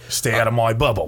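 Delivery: put-on quoting in an Aussie accent; hammed-up Australian movie line. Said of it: "do an Australian accent".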